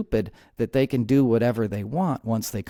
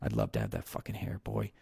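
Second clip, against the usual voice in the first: low, soft mock Trump muttering to himself; a lightly voiced jealous Trump daydreaming; imitating Trump; 4 semitones lower, 6 dB quieter than usual. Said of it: "that's all he thinks about".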